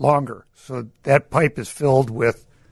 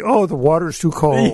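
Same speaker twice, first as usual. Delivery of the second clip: put-on whiny big baby; 3 semitones higher than usual. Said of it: "This big baby".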